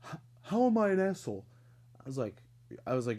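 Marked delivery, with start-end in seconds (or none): 0.1-1.4 higher, louder, fast, indignant; a hint of a whiny guy protesting; defensive coworker.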